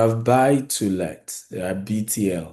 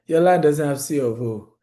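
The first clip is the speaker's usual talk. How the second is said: mocking know-it-all; 6 semitones higher, 4 dB louder than usual. Mocking ignorant property agents.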